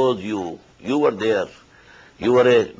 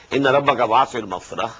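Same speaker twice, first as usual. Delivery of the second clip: melodic, measured tajweed chant; Quran recitation; 3 semitones lower, much faster than usual. Acted. Teacher recites the verse to his students, chanted tajweed. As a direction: intone the verse as in prayer.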